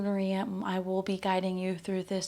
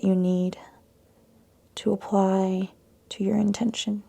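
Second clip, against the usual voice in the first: calm yoga meditation with long pauses; guided meditation; 5 dB louder than usual. Acted. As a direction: guide them into the breath, leaving space between phrases. Guides breath and intention setting.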